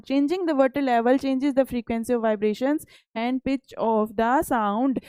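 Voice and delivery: reads each English word out slowly and carefully; slow textbook reading. Acted. Teacher reading the textbook aloud to pupils, slow and deliberate. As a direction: spell out the book line for the class.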